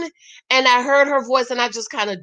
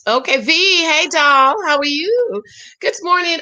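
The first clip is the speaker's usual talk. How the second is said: higher, sweet hello to a pet; affectionate greeting; 6 semitones higher than usual. Real, not acted. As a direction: greet your darling pet fondly. Greeting V again.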